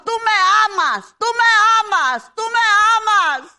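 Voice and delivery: impassioned preaching, driving each line hard; fervent preaching. Acted. Preacher urging the church to confess aloud, fervent. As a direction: preach it to the congregation with fire.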